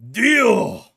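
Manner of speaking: loud, high declaration; high excited yell; mock shout. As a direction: belt it out like a hero. Shouting along with the character.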